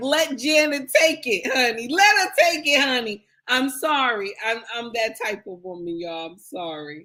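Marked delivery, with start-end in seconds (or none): 0.0-3.2 loud, high-pitched, hyped-up cheering. Acting out cheering on a husband at a concert: hyping up husband. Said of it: "I'm gonna hype my husband up and be like".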